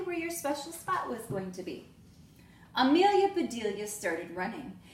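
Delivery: lively storybook read-aloud with voiced characters; reading to children. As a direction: read it like story time for little kids. Teacher reads picture book aloud.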